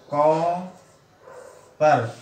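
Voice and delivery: कॉपर very slow with a long open ऑ; teacher modelling the borrowed vowel; English o vowel demo. Shown as a demonstration. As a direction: hold the ऑ in कॉपर. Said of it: "हम लिखते हैं कॉपर".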